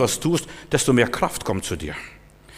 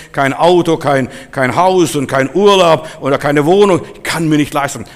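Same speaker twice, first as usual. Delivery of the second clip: louder, driving sermon delivery; emphatic preaching; 3 semitones higher, 5 dB louder than usual. Real, not acted. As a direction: preach it with rising force. Preaches with force. (eindringlich gepredigt)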